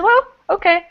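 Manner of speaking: mildly hammed-up upbeat insistence; a hint of an eager American guest; playful Kevin quote. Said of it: "but he said".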